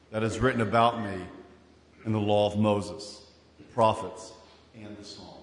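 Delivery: low, hushed scripture reading. Acted. Preacher reads Jesus' words to congregation, hushed. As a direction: lean in and read it softly.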